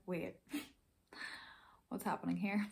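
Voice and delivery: breathy confused whisper with a laugh; waking from a faint, whispering in confusion; dazed whisper. Retold or imitated. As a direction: whisper it like you just came to.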